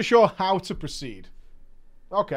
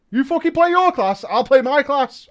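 high, loud snapping retort; angry retort; 6 semitones higher, 5 dB louder than usual. Retold or imitated. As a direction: bite back at the critic.

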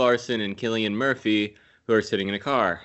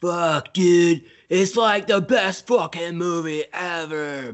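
mock excited; 6 semitones higher, 3 dB louder, slower than usual. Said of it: "you'd be like".

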